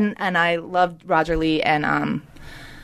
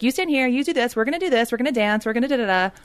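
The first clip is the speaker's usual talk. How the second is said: put-on bossy kid; 4 semitones higher, faster than usual. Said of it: "a bossy little kid that was like".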